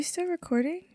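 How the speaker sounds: whispered question; whispering. Real, not acted. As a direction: ask it in a hushed whisper. Whispered check.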